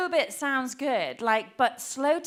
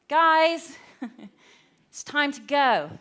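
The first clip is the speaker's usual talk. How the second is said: repeated calling out; 2 semitones higher, 5 dB louder than usual. Retold or imitated. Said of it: "I was calling up".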